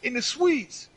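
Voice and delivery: high, slow mocking of his surprise; mock surprised coworker. Teasing a coworker who found him in the suites, high slow mock. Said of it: "he was like".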